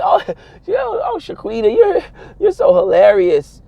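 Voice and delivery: high, laughing white-friend voice; mock white friend. White friends gushing at Shaquita, high laughing voice. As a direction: gush like a white friend who finds you hilarious.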